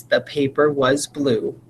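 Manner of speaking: slow, clear dictation of "The paper was blue."; dictation sentence. Shown as a demonstration. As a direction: read it slowly for the class. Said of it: "put it into a sentence".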